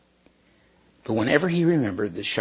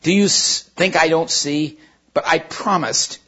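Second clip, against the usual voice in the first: dried up voice; 5 semitones higher, 4 dB louder than usual. A narrator's reading. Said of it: "still in the same voice".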